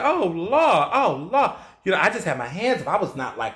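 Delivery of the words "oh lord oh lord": mock lament. Retold grief at the news.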